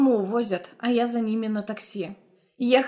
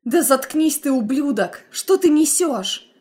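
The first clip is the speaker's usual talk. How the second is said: higher, louder angry yell; furious shout; 4 semitones higher, 5 dB louder than usual. Acted. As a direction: scream at him to shut up. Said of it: "Выкрикиваю я".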